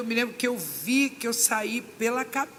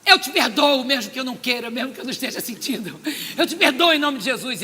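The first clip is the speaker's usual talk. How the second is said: fervent declaration; 8 dB louder than usual. Retold or imitated. Forcing forgiveness in prayer.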